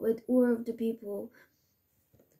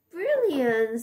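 louder, brighter cheer; excited; 2 semitones higher, 4 dB louder than usual. Shown as a demonstration. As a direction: say it with delight.

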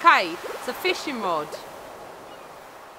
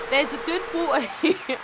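lightly put-on pirate, cracking up; a pirate read collapsing into a laugh. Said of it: "I can't read it anymore in pirate voice".

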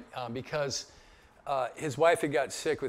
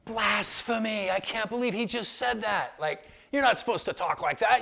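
mock-horrified, high and loud gasp into outrage; hammed-up shock, pitched way up; scandalized reaction; 6 semitones higher, 6 dB louder than usual. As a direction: act out a shocked new believer crying blasphemy. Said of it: "I was like".

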